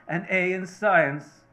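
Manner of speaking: a boss shouting his scorn; mocking shout. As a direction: jeer so the whole warehouse hears. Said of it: "he shouts".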